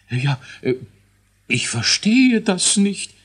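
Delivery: high, slow whimpering dwarf; whining dwarf. A narrator's reading. Dwarf scientist whines to the king, high and slow. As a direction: plead helplessly, squeaky. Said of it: "jammerte Elisius".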